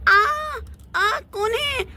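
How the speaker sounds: jolted awake with a high yelp; startled cry. Acted. Girl splashed awake by her aunt cries out in shock.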